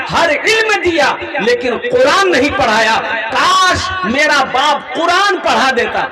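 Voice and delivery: high, loud lament of a grieving son; anguished cry. Acted. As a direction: cry out the regret, slowed. Grieving son cries out regret. (ऊँची, तेज़ आवाज़ में दुखभरी पुकार)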